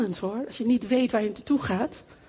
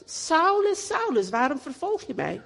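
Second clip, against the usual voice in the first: voice of the Lord; 5 semitones higher than usual. Acted. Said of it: "zegt de Heer".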